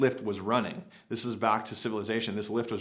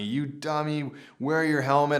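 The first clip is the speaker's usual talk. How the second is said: retold yelling; 4 semitones higher than usual. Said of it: "he's yelling at me".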